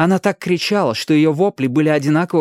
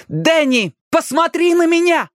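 high, insistent order; commanding shout. A narrator's reading. Ali ordering Danny to turn to her, commanding. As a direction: demand his attention like a commander. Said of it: "закричала самым своим командирским голосом".

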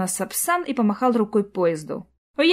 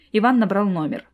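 usual speaking voice

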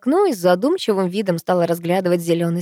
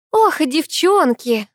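laughing; 10 semitones higher, 4 dB louder, much slower than usual. A narrator's reading. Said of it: "рассмеялась Вера Кирилловна".

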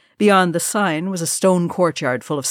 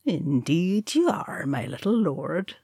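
sly; 3 dB quieter, slower than usual. Acted. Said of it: "said Nori slyly".

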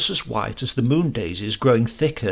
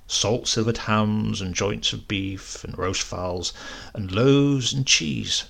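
ordinary delivery, nothing marked

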